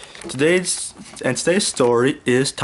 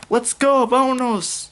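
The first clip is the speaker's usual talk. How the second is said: two friends shouting to set off; eager cheer; 11 semitones higher, slower than usual. A narrator's reading. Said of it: "said Dora and Boots together".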